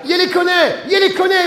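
loud, high yell. A narrator's reading. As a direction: shout it in alarm. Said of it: "Hurla Pépito". (Pépito hurle, fort et aigu)

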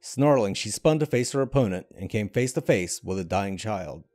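measured, dramatic storytelling read; story narration. A narrator's reading. Narrator telling a game's myth to viewers, dramatic storytelling. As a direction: draw the listener into a dark fantasy tale. Reads a fantasy story aloud.

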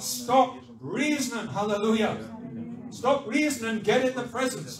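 loud rallying preacher; building sermon climax; fervent exhortation. Real, not acted. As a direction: drive the congregation on, phrase by phrase.

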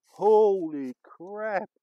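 loud, slow, drawn-out holy crap; amazed exclamation. Real, not acted. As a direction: stretch the words out in awe. Amazed at the fallen tree.

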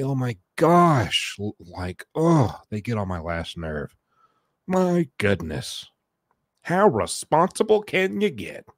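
dripping sarcasm, pretending to be annoyed; deadpan ironic grumbling; sarcastic mock complaint. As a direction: complain about the kids while clearly praising them. Mocking the kids who helped.

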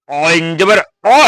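অ pressed from a squeezed throat, slow. Shown as a demonstration. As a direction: squeeze the throat on অ in অইন জবর অ. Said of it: "গলা টিপে দেয়া".

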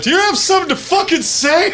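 high, hammed-up angry challenge; mock confrontation. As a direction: squeal a threat at him. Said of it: "I was gonna be like".

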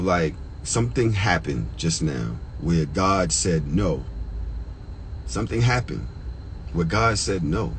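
low, slow, holding back emotion; slow down as the feeling catches you; choked up. Real, not acted. Storyteller recalling divine timing, choked up. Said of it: "Pardon me if I get choked up".

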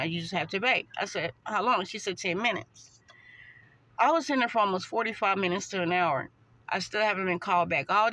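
speaking through fingers; muffled behind hand. Real, not acted. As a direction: hand covering mouth. Seen 0: hand pressed over mouth while speaking most frames.

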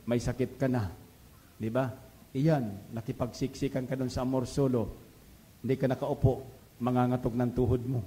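low, hushed tempting voice of the dark spirit; tempter's voice. Retold or imitated. Dark spirit tempting a believer, low hushed coaxing. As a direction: coax the listener like a sly tempter, low and soft. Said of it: "Uudyok ang kasabi niyan".

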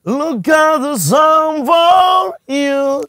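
drawn-out, hammed-up yell in English; mock celebrity shout. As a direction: imitate a celebrity bellowing his catchphrase slowly. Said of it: "teriak-teriak begini". (teriakan tiruan yang dilebih-lebihkan)

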